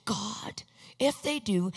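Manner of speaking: whispered prayer to God; silent prayer. Retold or imitated. Son praying silently beside his parents, whispered. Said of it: "I'm silently".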